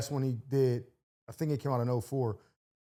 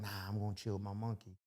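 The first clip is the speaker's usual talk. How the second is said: much lower, much softer put-on voice; odd character voice; 8 semitones lower, 13 dB quieter than usual. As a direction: drop into a low, muffled character voice. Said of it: "He's like".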